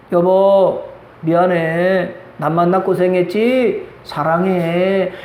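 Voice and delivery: husband tenderly apologizing to his wife; tender apology. Pretend. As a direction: apologize gently to your spouse. Model words to a spouse.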